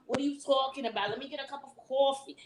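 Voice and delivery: put-on New York Italian-Irish neighborhood accent; harsh neighborhood accent. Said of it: "It's very harsh on the word".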